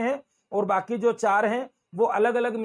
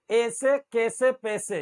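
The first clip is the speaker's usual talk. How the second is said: slow Indori "ese kese pese"; drawn-out Indore pronunciation with pure "e"; Indore dialect vowels; slower than usual. Shown as a demonstration. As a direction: demonstrate the Indori way, slowly. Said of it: "ये इंदौरी भाषा है".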